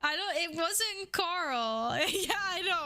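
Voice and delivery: high, breathless giggling talk; giggling to the chat after a donation; laughing through words. Real, not acted. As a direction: talk while cracking up.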